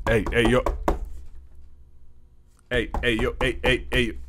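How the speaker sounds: high, loud, repeated hailing; acted calling out. Fans knocking on the host's door, calling out. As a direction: pester from outside a door.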